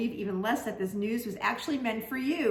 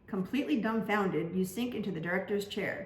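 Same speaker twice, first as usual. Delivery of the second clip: usual speaking voice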